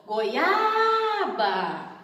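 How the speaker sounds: "goiaba" called out slowly with a very long, strong A; stretched stress on A. Shown as a demonstration. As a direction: stretch the middle A of "goiaba", as if calling it. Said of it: "Qual que é a letra que sai mais forte?". (chamando "goiaba" com o A bem alongado e forte)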